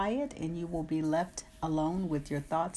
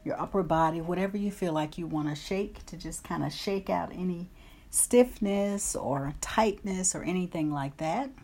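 guided meditation. Acted. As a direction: calmly guide them through breaths, easing into whispers. Leads a guided breathing meditation.

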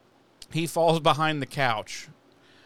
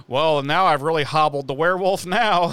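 mocking Oz; 6 dB louder than usual. Mocking Oz's plan, laughing.

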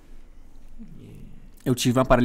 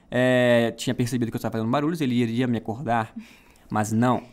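announcer voice. Acted. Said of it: "Adorei a voz de locutor".

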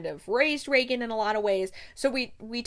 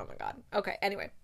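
usual speaking voice

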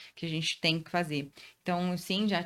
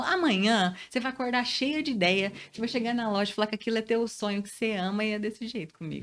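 lively retold husband; 4 semitones higher than usual. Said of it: "ele falou".

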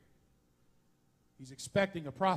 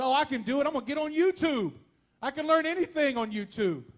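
overconfident; 8 semitones higher, 6 dB louder than usual. Retold or imitated. Cocky self-quote about fixing toilet.

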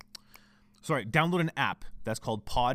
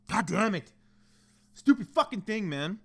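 higher-pitched, exasperated swearing; frustrated cursing; 5 semitones higher, slower than usual. Real, not acted. Podcaster swearing at his crashed computer, frustrated. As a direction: curse the machine in exasperation. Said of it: "I'm fucking frustrated now".

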